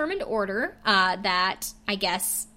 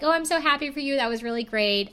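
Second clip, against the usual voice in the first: mock sugary congratulations, higher; fake gushing; 5 semitones higher than usual. Ralph faking happiness for Elsie, mock sugary. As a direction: imitate a two-faced sweet tone. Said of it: "Ralph gets super fake".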